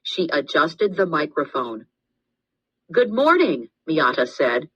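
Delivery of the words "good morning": lightly voiced girl. A narrator's reading. Miata greets, voiced girl.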